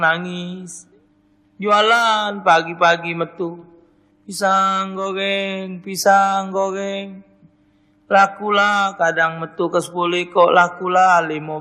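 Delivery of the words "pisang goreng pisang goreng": hawker's call. Acted. Widow hawking fried bananas.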